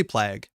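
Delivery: Plague said as "plag", short a as in cat; the childhood "plag" he gets roasted for; Alberta pronunciation. Shown as a demonstration. Streamer admitting his Alberta way, "plag" with short a. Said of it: "I know that's wrong".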